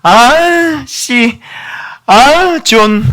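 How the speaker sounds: high, loud exasperated outburst; hammed-up irritated curse, cut short; mock teen cursing. Shown as a demonstration. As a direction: imitate a teenager starting to swear. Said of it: "이거 안 돼요".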